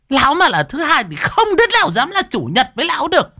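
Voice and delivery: very high, fast furious wife's tirade; high, rapid raging rant; roaring scold. A narrator's reading. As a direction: tear into him at full speed. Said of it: "nó gầm lên".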